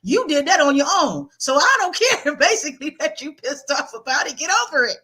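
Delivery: high, no-nonsense grandmother lecture; blunt grandmother lecture. Retold or imitated. Grandmother telling grieving grandson to get over it, blunt. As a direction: scold him straight like a blunt grandma. Grandmother's long scolding, voiced.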